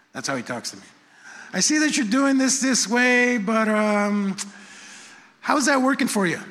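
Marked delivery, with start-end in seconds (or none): 1.5-6.4 raised, gently probing question; a patient inner voice asking; Holy Spirit voice. Retold or imitated. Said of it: "This is the Holy Spirit talking to me".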